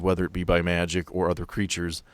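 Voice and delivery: normal talking voice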